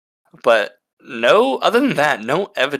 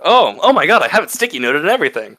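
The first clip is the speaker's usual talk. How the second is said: excited; 4 semitones higher, 3 dB louder, faster than usual. Real, not acted. Finds favorite book section.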